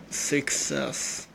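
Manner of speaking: slow, careful SUCCESS with a short first vowel, "sik-SESS"; British-style SUCCESS. Shown as a demonstration. Coach showing how British people say it, slow SUCCESS as "sik-SESS". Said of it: "even in a British accent".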